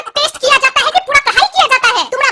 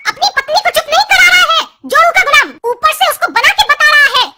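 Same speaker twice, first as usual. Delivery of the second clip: raised voice, mock-furious mother; angry scolding; 2 semitones higher than usual. Mother berating her son for siding with his wife, raised and angry. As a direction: snap at the henpecked son.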